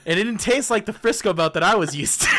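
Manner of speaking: words broken by laughter; laughing. Real, not acted. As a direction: laugh through the line. Laughing while telling story.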